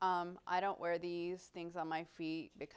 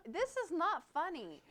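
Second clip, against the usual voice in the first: laughing protest; 10 semitones higher than usual. Retold or imitated.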